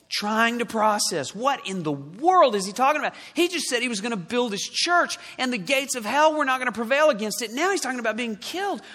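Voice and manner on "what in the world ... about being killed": acted bewilderment. Voicing Peter's bewildered thoughts.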